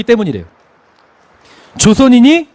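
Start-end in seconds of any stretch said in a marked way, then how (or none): 1.8-2.5 조선인이 called out louder and higher; 조선인이 raised like a panicked rumor; alarmed rumor. Retold or imitated. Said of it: "이런 말도 안 되는 기묘한 소문".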